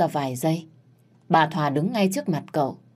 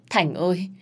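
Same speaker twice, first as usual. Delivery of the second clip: pained wail. Acted. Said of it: "gào lên đau đớn".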